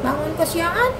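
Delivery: sing-song list of grievances; complaining child Ani. Acted. Ani lists what she gets scolded for, aggrieved. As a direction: lift and drop each complaint, childlike.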